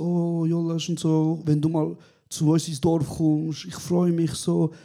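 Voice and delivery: slow, sweet grandmother voice, lightly done; sweet grandma. Retold or imitated. Grandmother invites her grandson to the village, slow and sweet. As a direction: drag it out like a doting granny. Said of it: "meine Großmutter sagt so".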